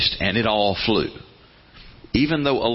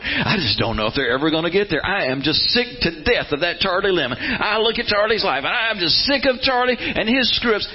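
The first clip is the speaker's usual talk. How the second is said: rising, fed-up grumble; mock an impatient God who's had enough; high exasperated complaint; exasperated sigh; 5 semitones higher than usual. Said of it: "He's never looking at you going".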